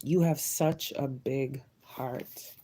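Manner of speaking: soft, slow, emotional reassurance; moved, slow and soft. Real, not acted. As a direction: say it slowly, moved almost to tears. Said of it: "you're making me emotional".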